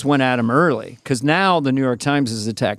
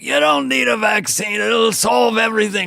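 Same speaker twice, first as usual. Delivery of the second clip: mock rant; 7 semitones higher than usual. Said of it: "I would do a bit".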